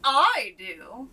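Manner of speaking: loud eager answer; knight calls out. A narrator's reading. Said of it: "cried the knight".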